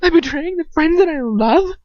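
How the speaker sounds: high, loud, anguished cry; loud, tearful outcry; crying in agony. Acted. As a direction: plead through tears. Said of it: "I cry, agony".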